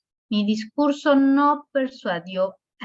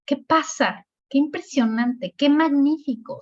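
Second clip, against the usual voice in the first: QUÉ opening each short exclamation; mild demonstrated exclamations starting on "Qué"; 5 semitones higher than usual. Shown as a demonstration. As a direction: exclaim "qué magnífico" as a classroom example, a bit raised. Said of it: "también en los signos de exclamación".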